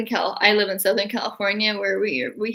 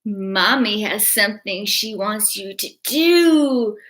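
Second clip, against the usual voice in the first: put-on a light British accent as a creepy mother; slow, eerie mother in a mild British accent; 3 semitones higher, slower than usual. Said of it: "that was a little British accent".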